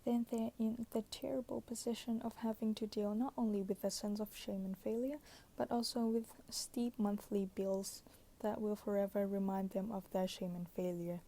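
pillow talk. Acted. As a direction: read it like a bedtime whisper. Reads book passage softly.

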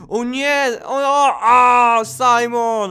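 loud high cry of a name; alarmed shout. Real, not acted. Player seeing grandpa Simon fall, alarmed shout. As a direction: call out in alarm as he falls. Character falls in game.

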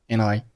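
"and I" joined with d dropped; linked words. Shown as a demonstration. Teacher showing learners linking, "and I" as one word. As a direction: run the n of "and" into "I". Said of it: "and和I连读成了".

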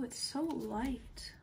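slow awed whisper; hushed slow wonder. Real, not acted. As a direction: whisper it slowly, amazed. Holding iPad in wonder.

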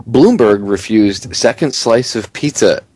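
headline read cracking into a laugh; laughing through headline. Real, not acted. Host rereads the pizza headline, real laughter breaking through. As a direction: fight the giggles mid-sentence. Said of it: "try to get through this without laughing".

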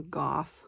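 golf said as "gawf" with no L sound; mom's golf without L. Retold or imitated. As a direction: say golf dropping the L entirely, like "gof". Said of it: "She doesn't say the L".

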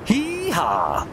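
cowboy yell. Acted. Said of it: "Spoken like a true cowboy".

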